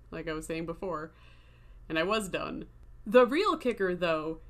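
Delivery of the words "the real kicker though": loud, raised emphatic start; louder, fired-up storyteller; getting loud. Real, not acted. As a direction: announce it loudly. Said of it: "I'm getting loud now".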